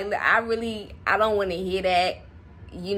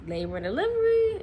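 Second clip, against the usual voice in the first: nurse asking; 12 semitones higher than usual. Retold or imitated. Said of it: "They asked".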